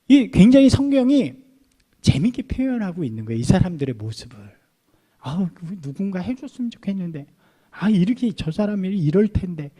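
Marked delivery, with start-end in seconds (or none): 5.2-9.7 hushed, much softer grumble under the breath; mumbling to each other. Retold or imitated. Timid villagers murmuring quietly among themselves. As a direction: mutter it like a timid crowd member. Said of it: "서로 수군수군 대는데".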